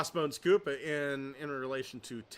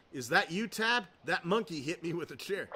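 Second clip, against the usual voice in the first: Randy Savage impression; 3 semitones higher than usual. Shown as a demonstration. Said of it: "Not my best one".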